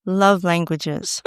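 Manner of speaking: slow, drawn-out seductive purr; sultry voice. Pretend. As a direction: stretch the words out, all seduction. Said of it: "say it a little louder in your sexy voice".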